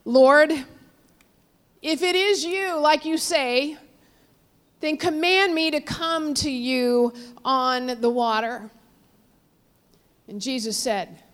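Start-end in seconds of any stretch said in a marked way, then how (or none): 0.1-8.7 Peter's yell. Retold or imitated. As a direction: imitate Peter calling across the water. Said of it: "Peter yells to him".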